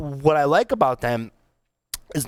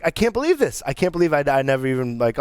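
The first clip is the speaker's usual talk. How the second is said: mock disbelief; 2 semitones higher, faster than usual. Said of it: "I was like".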